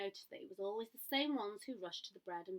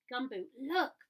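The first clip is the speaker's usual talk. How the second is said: excited call; 3 semitones higher, 6 dB louder, slower than usual. A narrator's reading. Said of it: "calling and pointing excitedly".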